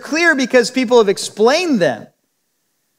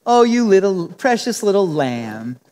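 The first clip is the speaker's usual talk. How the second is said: grandmotherly coo; 4 semitones lower than usual. Retold or imitated. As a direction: coo it to a little child. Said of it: "some grandmotherly figure calling a child".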